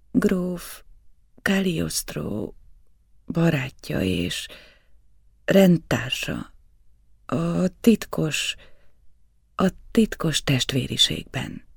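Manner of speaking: slow, halting, toneless words; mechanical trance voice. A narrator's reading. Entranced Lorenza answers Saint-Germain, slow and mechanical. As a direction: speak like a sleepwalking machine. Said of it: "a gépies felelet".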